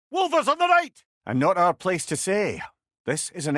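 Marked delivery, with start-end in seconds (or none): 0.1-1.0 loud, high shouted enemy warning; battle callout. Acted. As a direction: call out the threats over the din. Combat callout.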